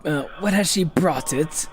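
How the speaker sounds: slow, solemn lightly voiced keeper; lightly voiced NPC. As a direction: intone like an ancient guardian. Voicing game NPC dialogue.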